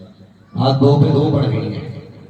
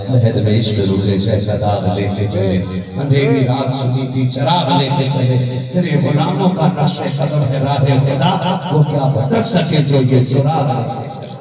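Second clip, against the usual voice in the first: recited devotional verse over music; poem recitation. Acted. Cleric reciting a dying scholar's verses, poem recitation. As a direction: recite the couplets as a naat.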